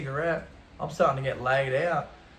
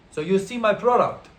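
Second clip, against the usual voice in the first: lightly voiced drug boss, louder and higher; dealer confronting him; 5 semitones higher, 5 dB louder than usual. Head honcho stands up to a visitor, hint of a dealer's demand. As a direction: put a firm question as the boss.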